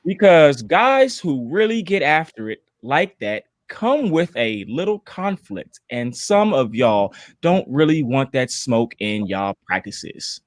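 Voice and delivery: slow, measured mimicry, dropping away at the end; Dre's voice. Co-host reading a colleague's tweet aloud, slow mock-imitation. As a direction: read it out as a light, drawn-out impersonation. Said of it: "I'm gonna read it in Dre's voice".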